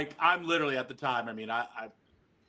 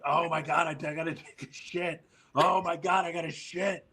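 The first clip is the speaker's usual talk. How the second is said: higher, hammed-up panic; desperate imitation; 4 semitones higher than usual. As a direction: imitate someone about to lose control. Sabu desperate, retold comic story.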